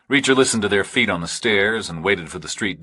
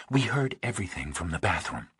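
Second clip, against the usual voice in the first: softer, cool and distant; quiet, faintly hostile; 8 dB quieter than usual. A narrator's reading. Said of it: "Pauling was quiet and faintly hostile".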